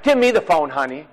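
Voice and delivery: pushy wife grabbing the phone. Retold or imitated. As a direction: play the wife who takes over the call. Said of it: "some of your wives are like".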